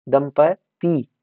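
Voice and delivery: दंपति very slow, broken before the last syllable. Shown as a demonstration. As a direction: spell out दंपति slowly by syllables. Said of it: "या दंपत्ति नहीं".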